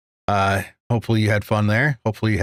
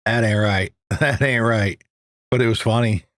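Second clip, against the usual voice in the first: laughing. Real, not acted. Laughing after the dirty joke.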